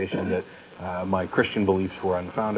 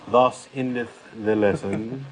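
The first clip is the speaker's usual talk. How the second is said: mock sermon close; 3 semitones higher, slower than usual. Mock solemn closing remark.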